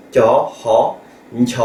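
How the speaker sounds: TIA, HA, then NTIA with N in front; teacher demonstrating aspirated NTIA; three-sound blend. Shown as a demonstration. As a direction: separate the syllables, then fuse them into NTIA. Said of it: "avec trois lettres par exemple".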